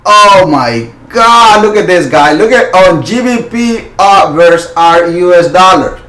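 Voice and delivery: real thrill in the voice; excited. Real, not acted. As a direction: gasp at a chart that made your day. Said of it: "I get super, super excited".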